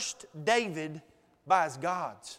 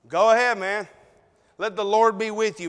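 smart aleck; 4 dB louder than usual. Retold or imitated. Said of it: "being a little bit smart aleck".

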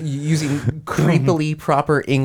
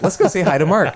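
higher, laughing mock voice; echoing the line; 5 semitones higher, faster than usual. Brain replaying the line on cue, higher laughing voice. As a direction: quote it playfully. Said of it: "my brain is just like".

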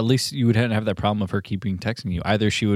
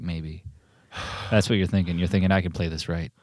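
hard-boiled film noir voice; fast clipped detective narration; noir narrator; 3 semitones lower than usual. Pretend. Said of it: "doing, like, an impression of some, like, noir movie".

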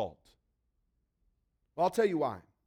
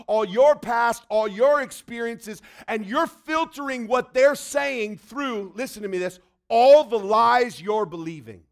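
building preaching; 5 dB louder than usual. Real, not acted.

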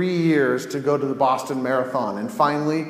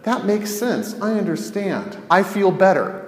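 mock cheerful acceptance; 5 semitones higher than usual. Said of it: "You now go".

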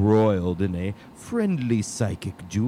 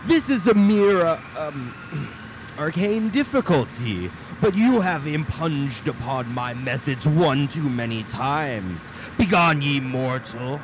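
evil queen; 5 semitones higher than usual. Acted. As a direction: rage at the mortals grandly. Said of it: "The great wizard is angry".

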